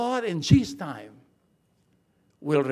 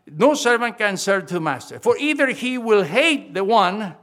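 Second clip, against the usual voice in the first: emphatic scripture; 3 semitones higher, 7 dB louder than usual. Acted. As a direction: proclaim each word of the verse. Reads verse again with force.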